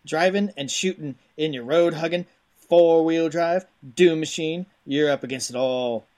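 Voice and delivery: hammy Cajun game-box hype; punchy back-of-the-box read in a rough Cajun accent; put-on Cajun accent. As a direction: read it like a Cajun swamp-adventure trailer. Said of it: "There's some Cajun".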